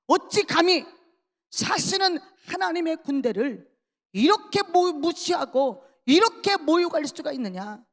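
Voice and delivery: righteous outrage in a preacher's retelling; acted indignation. David indignant at the insult to God's army, acted anger. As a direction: raise the pitch in mild acted outrage. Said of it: "분노했습니다".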